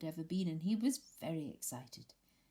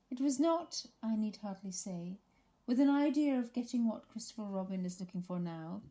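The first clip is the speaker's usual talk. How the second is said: pompous Eeyore; 4 semitones higher, 4 dB louder than usual. Acted. Eeyore addressing the party guests, pompous and mournful. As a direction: puff up like a gloomy old donkey making a grand speech.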